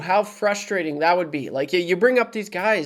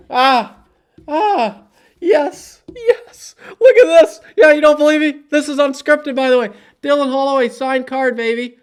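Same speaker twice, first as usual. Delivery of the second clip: much higher and louder, laughing with excitement; thrilled; 8 semitones higher, 5 dB louder than usual. Real, not acted. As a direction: squeal with real delight at a treasure. Finds a signed card, thrilled.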